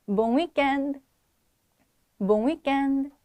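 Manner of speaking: Bon weekend slow and clear, tense unaspirated k; model pronunciation. Shown as a demonstration. Teacher repeats the phrase for students, slow model pronunciation. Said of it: "다시 한번 발음해 볼게요".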